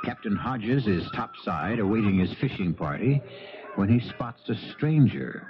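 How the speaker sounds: measured, even storytelling; radio host narration. A narrator's reading. Host setting up the charter boat scene, calm narration. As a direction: set up the scene for listeners.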